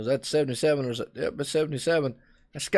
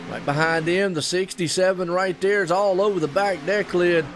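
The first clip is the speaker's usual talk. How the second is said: live play-by-play; 3 semitones higher than usual. Acted. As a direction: call the restart like the trucks are storming past you.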